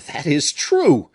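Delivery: loud, slow outburst of grim delight; a dark, triumphant exclamation; sinister joy. Acted. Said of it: "with a sinister kind of joy".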